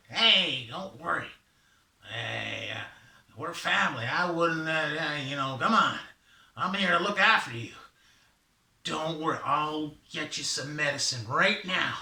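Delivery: lightly voiced confident helper; reassuring Raven. Raven promises his brother medicine, lightly acted reassurance.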